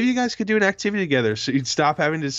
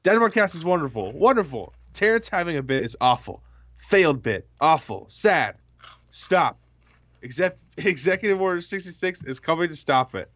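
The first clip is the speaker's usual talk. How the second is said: Trump impression; 4 semitones higher than usual. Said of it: "my Donald Trump impression".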